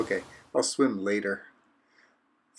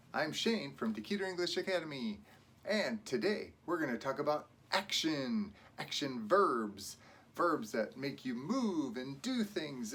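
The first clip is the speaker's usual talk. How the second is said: low-energy intro; 12 dB quieter than usual. Shown as a demonstration. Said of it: "Wait, let me try that again".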